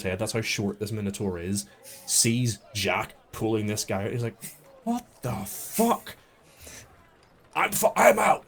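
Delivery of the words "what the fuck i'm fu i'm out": high, slow then shouted panic; panicked flight. Acted. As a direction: bail out screaming. Thug flees in panic.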